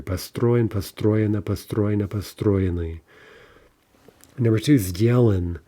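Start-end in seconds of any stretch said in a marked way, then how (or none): 0.0-3.0 построен, построена, построенный all stressed on the stro syllable; unshifted stress. Shown as a demonstration. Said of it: "no funny business with the stress here".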